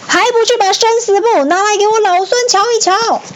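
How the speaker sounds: very high, strained angry yell; furious roar. A narrator's reading. Sun Wukong demands the book of life, roaring angrily. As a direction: roar the order with pitch right up. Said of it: "大声怒吼说".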